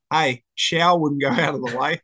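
laughing mid-line, slow; mock insult with a laugh; quoting through laughter. Retelling Robbo's cheeky jab at the bloke, laughing. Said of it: "Robbo just randomly just goes".

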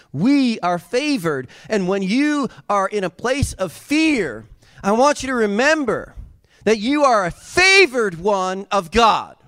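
slow, swelling pulpit delivery; rising preaching. Acted. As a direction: build it up for the congregation. Preacher building to the congregation.

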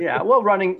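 laughing through the words. Real, not acted. Laughing while starting to speak.

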